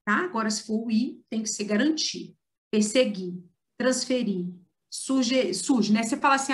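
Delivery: usual speaking voice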